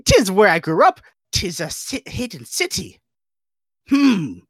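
high squeaky start then light goofy voice; Jar Jar Binks impression. Reading Jar Jar lines for friends, goofy alien voice. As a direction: play the clumsy alien guide. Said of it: "I'm gonna look up a voice line".

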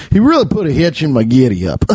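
quick mock Old West cowboy line; cowboy talk. Joking about the raccoon, mock cowboy accent. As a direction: lean briskly into a western cowboy twang. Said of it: "talking like fucking Red Dead Redemption".

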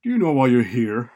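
loud, quick challenge; stern demand. A narrator's reading. Administrator confronting a student sent to him, loud stern demand. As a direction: fire the question at the student loudly.

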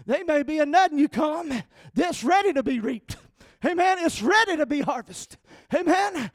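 loud, rising Southern preacher's shout; preaching at full force. Real, not acted. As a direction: shout the harvest line to the pews. Preaching climax.

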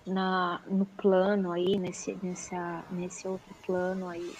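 tripping over words like a scratched record; stumbling over words. Real, not acted. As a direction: keep restarting, stuck on the phrase. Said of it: "eu engasguei aqui que nem um disco velho". (engasgando nas palavras)

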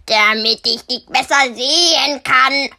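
leicht verstellte Bärenstimme, etwas lauter; Bär als Großmutter. Acted. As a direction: antworte scheinheilig als verkleideter Bär. Verkleideter Bär antwortet. (der verkleidete Bär täuscht das Mädchen)

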